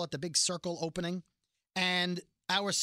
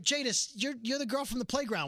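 mock incredulous; 5 semitones higher than usual. Imagined old acquaintance confronting Jadis.

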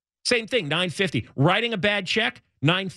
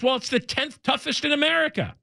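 mock angry; 7 semitones higher, faster than usual. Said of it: "he gets angry and says".

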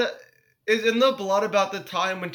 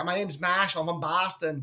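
lightly imitated Boston accent, softer; Marshall; 3 semitones lower, 4 dB quieter than usual. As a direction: do a mock Boston guy. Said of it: "who talks like this".

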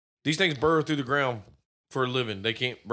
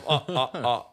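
Count laugh; 2 semitones lower than usual. Retold or imitated. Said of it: "the count says".

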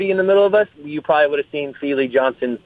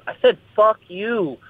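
slow, drawn-out retort in a raised pitch; calm defiance; 7 semitones higher, slower than usual. Retold or imitated. Friend standing his ground to the bully, calm defiance. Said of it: "very calmly smiles in his face and goes".

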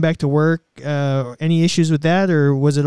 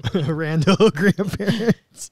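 laughing; much slower than usual. Real, not acted. Laughing at the random grandparent joke.

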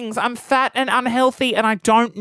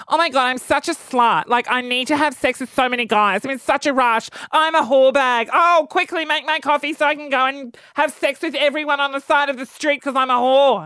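lightly mocking breezy woman; hammed-up inner voice of the thief; imagined woman's voice; 3 semitones higher than usual. Speaker imagines the coffee thief's thoughts, lightly mocking. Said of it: "this is her thinking".

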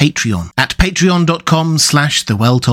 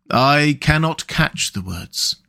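sad; slower than usual. Acted. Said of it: "said the mole sadly".

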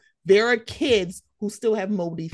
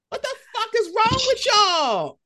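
angry; 14 semitones higher than usual. Real, not acted. Heated rant at critics.

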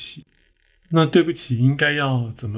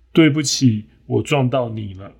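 sincere apology. Acted. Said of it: "简洁有力".

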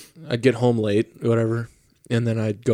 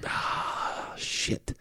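whispered, breathy little curse; muttered under breath; 13 dB quieter than usual. Retold or imitated. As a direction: mutter it softly to yourself. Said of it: "and you're like".

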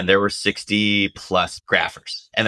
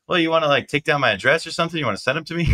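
Radio Man's voice; 8 semitones higher, much faster than usual. Retold or imitated. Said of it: "And Radio's like".

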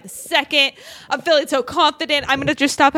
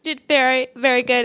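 teacher voice. Shown as a demonstration. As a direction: praise it like a kindergarten teacher. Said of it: "I almost got full on teacher voice going".

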